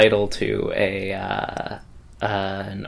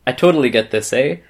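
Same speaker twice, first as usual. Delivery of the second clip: put-on Canadian accent. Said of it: "Canadian accent incoming".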